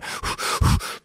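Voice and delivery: heavy unvoiced exhale; hard breath out. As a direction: breathe out hard as if straining for air. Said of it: "Breathing hard".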